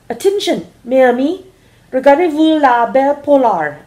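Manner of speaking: loud, high hammed-up French accent; a mock French warning, loud and high, slowly. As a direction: ham up a French cry of alarm. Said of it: "Only you said it in French".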